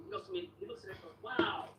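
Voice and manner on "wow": higher, drawn-out mock wow; amazed repairman. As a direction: imitate someone marvelling at a relic. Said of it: "The way he said it was so funny".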